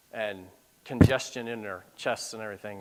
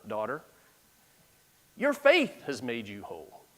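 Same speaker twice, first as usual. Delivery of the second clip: tender Jesus; 3 semitones lower than usual. Acted. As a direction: say it gently to the healed woman. Jesus speaks tenderly to woman.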